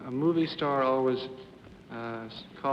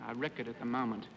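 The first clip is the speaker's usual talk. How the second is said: put-on Australian accent; 6 dB quieter than usual. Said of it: "That was my Australian accent".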